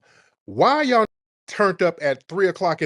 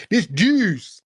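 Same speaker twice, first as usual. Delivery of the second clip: higher-pitched mock echo; mocking quote; 8 semitones higher than usual. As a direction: quote it back in mock disbelief. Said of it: "Talking about".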